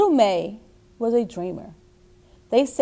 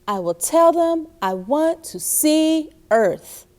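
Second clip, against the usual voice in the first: put-on little girl voice; 6 semitones higher than usual. Child May voiced in story.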